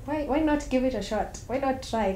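persuading herself. Acted. Woman recalling her thought about him, persuading herself. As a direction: talk yourself into giving it a shot.

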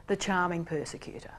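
whispered softly in warning. Shown as a demonstration. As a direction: hush it like a secret warning.

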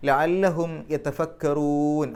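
very slow chant, stretching the ruu in യതഫക്കറൂൻ; stretched recitation. Shown as a demonstration. Teacher shows the long madd while reciting, slow and chanted. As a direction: draw out the long ruu slowly. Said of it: "നീട്ടൽ".

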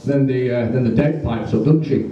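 normal talking voice

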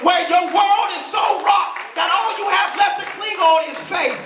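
high, ringing sermon build; impassioned preaching. Real, not acted. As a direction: preach it with rising fire. Preaches at full force.

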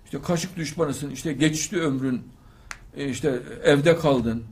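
slow, taunting nag; slow mocking taunt at an unmarried daughter; mock nagging. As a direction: drag out the relatives' jibes. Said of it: "başına kalkıyorlar çocuğun".

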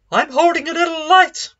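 tiny high mock voice, sheepish; squeaky little voice. Preacher mocking a timid Jesus, squeaky high voice. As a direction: shrink the claim into a small high squeak. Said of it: "No, he doesn't".

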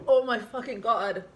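mouth burning from spicy food. Real, not acted. After spicy shot.

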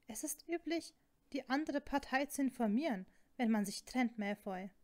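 starts high, emphatic, settles on the name; heated, pointed reproach; indignant rebuke. Acted. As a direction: lecture an ex in exasperation. Acted quarrel, indignant rebuke.

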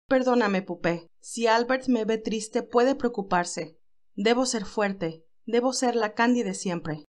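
slow, hushed Candy talking herself into being strong; steady your voice after crying, slowly; Candy holding back tears. Acted. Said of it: "pensaba mientras se ponía en pie".

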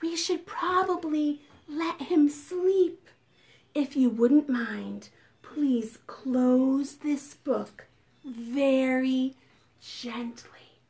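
slow, softening storybook close; winding down for bedtime; gentle story read-aloud. A narrator's reading. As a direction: read the ending carefully, spacing out the last words. Reads the storybook to children.

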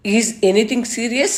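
slow, earnest question; sincere. A narrator's reading. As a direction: ask it slowly and truly meaning it. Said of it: "గొంతులో sincerity". (నెమ్మదిగా, నిజాయితీగా)

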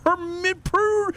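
high, indignant tirade; exasperated rant. Real, not acted. Player ranting at partner who won't understand, exasperated. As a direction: pile up the insults, fumbling for the word.

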